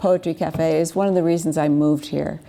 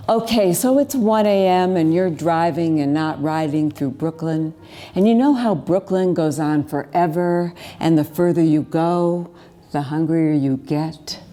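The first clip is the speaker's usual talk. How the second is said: lively spoken-word storytelling; poetry performance. Acted. Poet to a cafe audience about a night drive, spoken-word delivery. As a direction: tell the poem as a rolling late-night tale.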